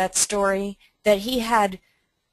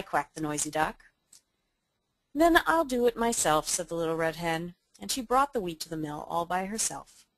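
lively read-aloud for listeners; presenter reading a fable to webinar guests, story voice; storybook narration. Acted. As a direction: tell it like a children's tale. Reads Little Red Hen aloud.

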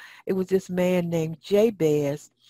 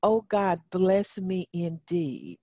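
leading a prayer; slower than usual. Shown as a demonstration. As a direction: say it slowly so the church can follow. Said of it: "Everybody say that with me".

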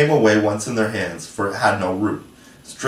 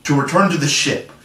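deliberate, higher-pitched scheming; slow, through teeth; 5 semitones higher than usual. A narrator's reading. Hook reveals his plan to Smee, slowly and deliberately. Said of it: "Hook replied slowly through his teeth".

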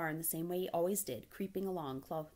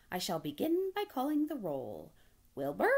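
raised, louder roll-call voice; 4 semitones higher, 5 dB louder than usual. Acted. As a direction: call names out to a meeting. Charlotte calls the roll.

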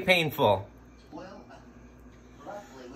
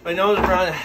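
laughing; faster than usual. Real, not acted. Laughing through the burn.

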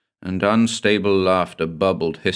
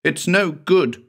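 higher, slow, pleading repeat; a higher, slower cry of hopelessness; rising anguish; 9 semitones higher than usual. Acted. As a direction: let the despair break out, higher and slow. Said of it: "she whispered hoarsely".

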